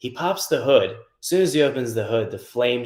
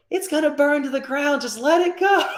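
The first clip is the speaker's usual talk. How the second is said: very high, louder mock old lady; 5 dB louder than usual. Old lady telling them to let the car burn, high old lady voice. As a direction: dismiss it like a calm old neighbor. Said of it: "She's like".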